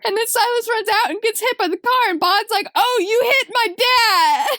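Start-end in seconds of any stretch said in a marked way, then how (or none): 2.7-4.5 high, drawn-out mock wail; mock crying. Boy tells police they hit his dad, mock crying. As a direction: wail it like a hammed-up sobbing child. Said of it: "And he's crying".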